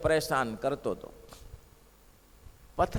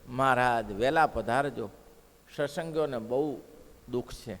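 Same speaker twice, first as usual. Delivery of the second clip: tearful plea; 6 semitones lower than usual. Retold or imitated. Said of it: "અને ખૂબ રડ્યા".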